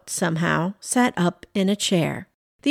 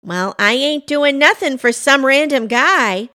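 loud, higher, indignant; defiant refusal; 5 semitones higher, 5 dB louder than usual. A narrator's reading. Pam won't help some random guy, defiant refusal. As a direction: refuse him with emphatic force.

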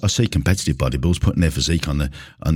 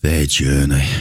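scornful quote; 2 semitones lower, slower than usual. Shown as a demonstration. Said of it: "I hate this word".

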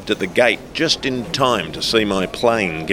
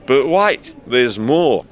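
higher-pitched showy announcement; grand declaration; 5 semitones higher, 4 dB louder, slower than usual. Acted. Passenger cuts the staffer off to reveal more weapons, declaring grandly. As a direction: declare it like a salesman's big reveal. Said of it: "I declared".

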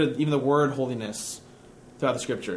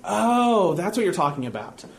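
mock realization; 2 semitones higher than usual. Scholar playing dumb to the atheist, mock realization. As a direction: act as if it just clicked. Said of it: "He goes".

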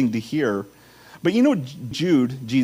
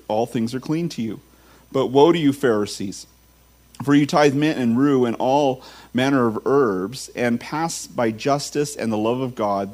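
measured public Bible reading; Scripture reading. Acted. Preacher reads Luke to the congregation, declaimed Scripture reading. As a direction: read it aloud to the congregation, stressing key words.

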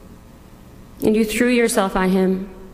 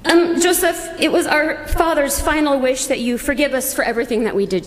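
nervous brothers pleading; 4 semitones higher, faster than usual. Acted. Brothers fast-talking a lie to Joseph, nervous plea. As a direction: hurry through the lie like guilty brothers begging.

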